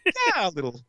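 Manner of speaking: a shy little Irish yes, hammed-up; Irish stereotype voice. The Cinnamon Bear answering about his green ribbon, mock Irish lilt. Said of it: "terrible Irish stereotype".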